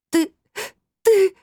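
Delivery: very high, loud sobbing stammer; girl choking on tears, unable to speak; choking on sobs. A narrator's reading. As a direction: choke the words out between sobs. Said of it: "захлёбывалась рыданиями Анжелика".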